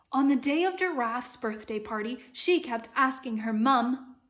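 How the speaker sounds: story reading with an imitated British lilt; American trying a British accent; amateur British accent. Shown as a demonstration. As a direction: read aloud in a patchy British accent. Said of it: "practicing reading this book in a British accent".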